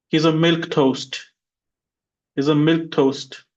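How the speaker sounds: he's a milk toast, stress on milk; teacher drills the phrase. Shown as a demonstration. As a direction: clear model sentence for repeating. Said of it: "repeat after me".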